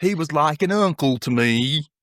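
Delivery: put-on slow, clumsy, horrible American accent. Retelling a scene where Mason talks in a horrible American accent. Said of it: "trying to talk with this really horrible American accent".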